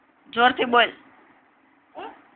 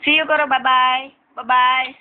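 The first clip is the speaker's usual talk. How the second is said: coaxing bye-bye; 3 dB louder, much slower than usual. Real, not acted. Coaxing a small child to say bye.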